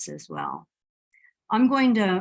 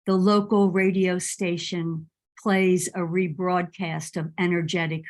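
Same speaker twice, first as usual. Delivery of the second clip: measured poem recital with deliberate pauses; poetry reading. Acted. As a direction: read your poem line by line, letting each phrase settle. Reads second poem aloud.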